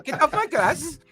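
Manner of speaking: put-on high cranky old man; grumpy old man voice. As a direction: shoo them off his lawn.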